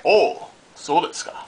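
lively "oh, so desu ka"; playful, voiced "oh, I see" in Japanese; mock realization. Repeated Japanese catchphrase, first take.

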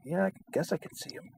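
high, soft, strained grudging admission; grudging concession. Retold or imitated. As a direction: squeeze it out high and small, barely convinced. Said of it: "and I'm like".

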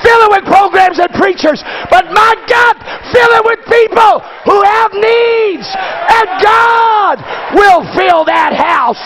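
full-force preacher shout; preaching. Acted. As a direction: preach it out with fire.

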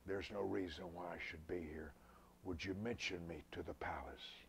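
soft, unhurried plea, dropping to a whisper; gentle request. Retold or imitated. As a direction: ask softly, without blame. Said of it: "He just very gently says".

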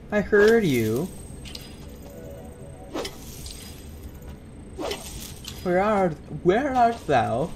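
mock Shakespearean call; theatrical calling. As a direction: call like an old-fashioned suitor.

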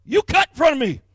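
loud, high-pitched indignant shouting; angry line complaint. Retold or imitated. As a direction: yell it like someone who waited forever. Angry person cut in line.

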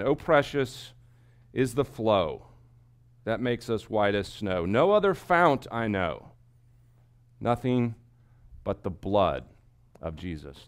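reverent recitation. Acted. Quoting hymn lyrics slowly.

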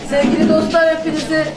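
real hoarse voice from talking. Real, not acted. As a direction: speak through a worn-out hoarse voice. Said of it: "Konuşmaktan sesim kısıldı".

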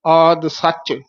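ਸੱਚ with a doubled ch; tight. Shown as a demonstration. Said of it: "ਸੱਚ ਕੱਸ ਕੇ ਬੋਲਣਾ". (ਸੱਚ ਕੱਸ ਕੇ ਬੋਲੋ)

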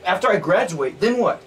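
freaking out. Acted. Student panicking to roommate about life after college, freaking out. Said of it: "I'm freaking out".

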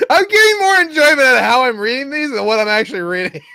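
very high, loud and fast; high silly voice. Real, not acted. Enjoying own silly readings, high excited voice.

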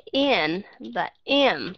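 "in" and "im" stretched very slowly, short i; short I demo. Shown as a demonstration. Teacher demonstrating short I to online students, very slowly. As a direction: draw out "in" and "im" for the class. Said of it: "thì các bạn sẽ nghe những cái chữ như là".

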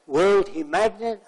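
mock-astonished Arab accent question; amazed Arab accent. Arab man stunned by the balloon trick, slow Arab accent. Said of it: "That's the way he spoke".

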